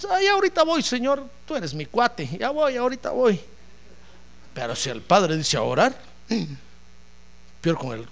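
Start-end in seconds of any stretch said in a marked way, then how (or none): 0.1-3.4 higher, sing-song put-off reply; playful stalling voice; mock lazy excuse. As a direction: brush off the call cheerfully. Lazy believer mocked.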